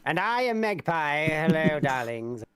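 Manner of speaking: campy drag queen. Pretend. Campy drag persona intro.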